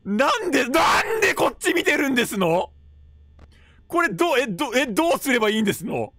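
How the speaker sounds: lightly voiced ojousama, high and alarmed; frightened young lady keeping her polite speech. Streamer playing refined lady in a horror game, ojousama alarm. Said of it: "Okay, today I'm doing theお嬢".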